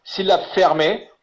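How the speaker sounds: syllabe fermée drawn out slowly, rising at the end; slow, deliberate syllabe fermée; teaching emphasis. Shown as a demonstration. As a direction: spell out syllabe fermée for the class. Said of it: "ici le code".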